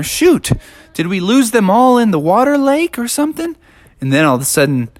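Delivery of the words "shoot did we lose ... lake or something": worried searching. Acted. Players hunt for lost Frisbees.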